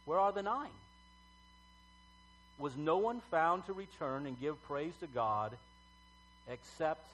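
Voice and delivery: measured Bible reading with long pauses; solemn public reading, phrase by phrase; scripture reading. Acted. Reads the Bible passage aloud.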